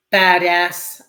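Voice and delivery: loud "badass" with a short "a" in both syllables; American-style badass. Shown as a demonstration. Reviewer retrying the word for Jamie Lee Curtis, loud American-style "badass". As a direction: punch out "badass" as "bad-ass". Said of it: "it's impossible to say badass without, in a, in a British accent".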